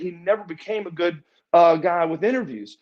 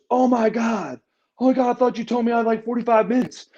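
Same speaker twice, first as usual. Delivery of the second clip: higher, quicker startled protest; retold alarm; 7 semitones higher than usual. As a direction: act out a caught-off-guard complaint. Retold startled reaction to timing.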